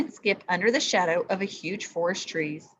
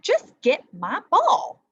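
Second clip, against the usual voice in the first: loud, slow, bossy demand; demanding snap; 7 semitones higher, 6 dB louder, slower than usual. A narrator's reading. Spoiled princess orders the frog: loud slow demand. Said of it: "the princess snapped".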